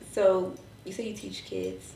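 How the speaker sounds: sexy, seductive, flirty tone. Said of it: "Don't put your sexy voice on".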